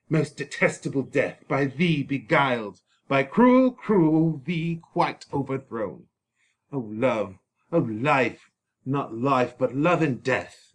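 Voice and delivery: lightly dramatic grieving lament, a spike on "by cruel"; the suitor bewailing death's theft of his bride; anguished Paris. Acted. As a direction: mourn with theatrical sorrow.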